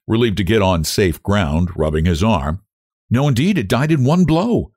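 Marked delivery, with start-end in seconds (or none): 3.1-4.7 lightly flippant, pitched up. A narrator's reading. Frances answering the young man with flippancy. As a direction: toss it off flippantly. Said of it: "said Frances with a flippancy".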